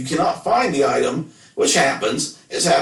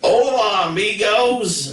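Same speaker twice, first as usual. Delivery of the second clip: slow white-gringo Spanish; 8 semitones higher, much slower than usual. Shown as a demonstration. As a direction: greet them in hammed-up, drawn-out gringo Spanish. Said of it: "talk really slow and white".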